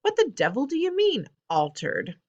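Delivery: father shouting at grandmother; angry shout. Acted. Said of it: "shouted Mister Jenkins".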